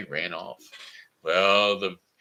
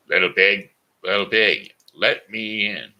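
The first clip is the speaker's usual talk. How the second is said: wolf calling; 9 dB louder than usual. Acted. Wolf knocks at third door.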